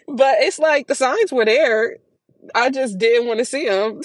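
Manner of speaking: laughing. Real, not acted. Laughing through emotional admission.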